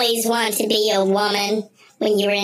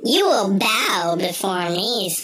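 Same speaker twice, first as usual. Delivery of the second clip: commanding God voice; 3 semitones lower than usual. Pretend. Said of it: "I'm God".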